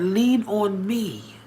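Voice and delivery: slow, soft lean on me; gentle plea. Retold or imitated. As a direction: ask gently, taking time. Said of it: "He said".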